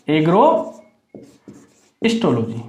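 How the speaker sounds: very slow, careful dictation; slow spelled-out term. Shown as a demonstration. Teacher to class, spelling the new term out very slowly. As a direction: stretch the word out syllable by syllable.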